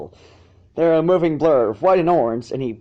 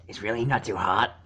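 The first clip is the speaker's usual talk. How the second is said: lower, softer nervous question with stress on not; a little nervous; 4 semitones lower, 4 dB quieter than usual. Acted. Dragon checking on the fillies, lightly nervous. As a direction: ask it softly, worried it burns. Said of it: "he asked a little nervously".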